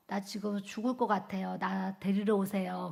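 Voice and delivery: a mild hint of feeble exhausted pleading; weak pleading. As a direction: sound drained and begging to be fetched. Calls husband, feeling deathly ill.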